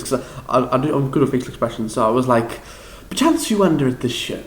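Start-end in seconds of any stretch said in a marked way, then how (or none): 3.1-4.4 lightly theatrical comic recital; hint of a Shakespearean clown; Peter Quince. Shown as a demonstration. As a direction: declaim it a little higher, like a comic stage prologue. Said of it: "I did Peter Quince first".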